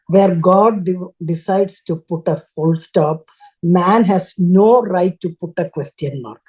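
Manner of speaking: slow, deliberate quoted saying; measured proclamation. Retold or imitated. Woman retelling the TV speaker's words, slow and deliberate. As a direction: space it out like a weighty pronouncement.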